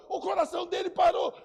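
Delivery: high, loud urgent report; loud high panicked announcement; alarmed shout. Retold or imitated. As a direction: shout it across the room.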